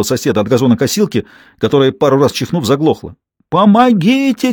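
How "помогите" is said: drawn-out, much higher, louder wail; mock victim howling for help; theatrical cry for help. A narrator's reading. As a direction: ham up a slow, high cry for help. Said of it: "театрально завопил Гопкинс".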